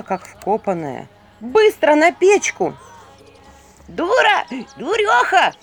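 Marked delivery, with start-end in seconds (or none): 1.4-2.7 loud, slow, high urgent command; urgent order. A narrator's reading. Vasilisa orders the frozen girl onto the stove, loud and urgent. 3.9-5.5 high, loud squealing insults; shrieking skull. A narrator's reading. Skull squeals at the frozen girl, high and loud. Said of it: "визжала черепуша".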